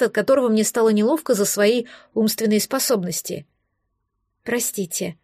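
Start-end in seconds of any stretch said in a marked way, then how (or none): 4.4-5.2 soft, low, sheepish murmur; ashamed apology. A narrator's reading. Girl apologising to her irritated rescuer, ashamed. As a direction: shrink into a small apology. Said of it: "Стыдливо опустила я голову".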